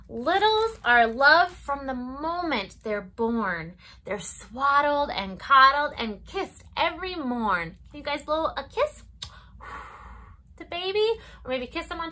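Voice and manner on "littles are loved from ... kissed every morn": lilting storybook read-aloud; circle-time story voice; reading to children. Acted. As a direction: read it gently to toddlers. Reads picture book to children.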